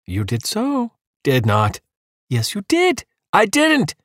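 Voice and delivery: high, squeaky back-and-forth; childish bickering. Acted. Husband and wife squabbling, high and childish. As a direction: squabble like kids.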